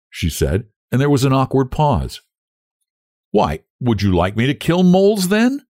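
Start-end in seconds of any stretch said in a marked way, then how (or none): 3.3-5.7 pitched up, rising tentative question. A narrator's reading. Young woman after an awkward pause, tentative. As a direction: feel him out, ending high. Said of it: "she asked tentatively".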